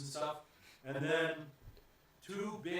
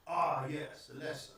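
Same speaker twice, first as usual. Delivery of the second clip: put-on southern-accented gentleman host; courtly put-on southern accent. Gentleman recognizes the Burgermeister's daughter, southern accent. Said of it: "Why does he got a southern accent?".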